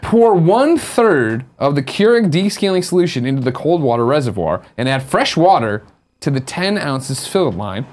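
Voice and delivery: slow, deliberate read-out; measured instruction reading, dropping at the end; reading instructions aloud. Real, not acted. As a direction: read the steps out slowly, phrase by phrase. Reads out printed instructions.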